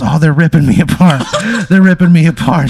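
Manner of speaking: high, loud hammed-up wail; mock agony screams. Horny Hank being torn apart, hammed-up agony scream. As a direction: cry out in pretend agony, laughter creeping in. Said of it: "screams of agony from Horny Hank".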